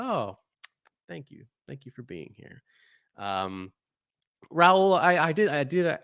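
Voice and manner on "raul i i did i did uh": cartoon character voice. Real, not acted. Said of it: "now I'm talking like a cartoon character".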